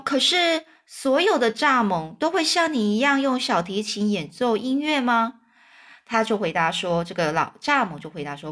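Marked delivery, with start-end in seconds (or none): 0.0-5.3 lightly voiced boy, a bit higher; curious boy. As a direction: ask like a curious child. (小男孩好奇地问)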